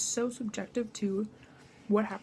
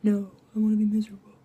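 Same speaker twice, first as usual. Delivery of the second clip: whiny; 8 dB louder, faster than usual. Retold or imitated. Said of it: "your heart is like".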